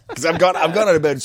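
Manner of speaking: loud, amused confession through laughter; laughing. Real, not acted. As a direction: laugh your way through the admission. Laughing at own sleepwalking story.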